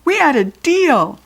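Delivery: slow, high, loud angry protest; furious. A narrator's reading. Kirsty reminding the goblin of their broken deal, furious. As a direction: hammer out each word in fury. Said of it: "cried Kirsty furiously".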